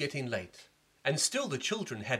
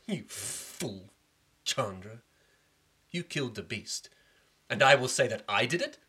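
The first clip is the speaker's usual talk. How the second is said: furious prince. Acted. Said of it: "He became furious".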